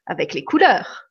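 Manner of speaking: lively read-aloud with swinging tune; story reading. Acted. Reading from the book to live viewers, expressively. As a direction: read the anecdote to the audience with expressive ups and downs.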